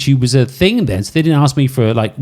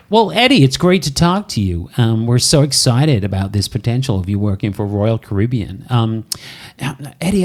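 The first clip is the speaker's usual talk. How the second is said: put-on American accent; 2 semitones lower than usual. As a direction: voice the recruiter in a mild American accent. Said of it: "excuse my American accent".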